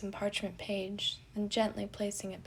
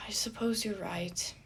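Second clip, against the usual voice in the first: mumbled. Acted. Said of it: "he mumbled".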